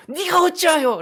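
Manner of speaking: very high, loud shouted demand; angry shout. Acted. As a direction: cry out in acted royal fury. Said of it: "소리는 쳐요". (높게 소리치며 화내듯)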